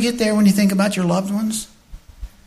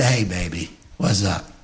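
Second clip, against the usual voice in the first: soft playful greeting; 14 semitones lower, 8 dB quieter than usual. Pretend.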